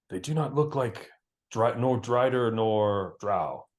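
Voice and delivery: whispering scout. Acted. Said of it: "a whisper from the trees, a voice say".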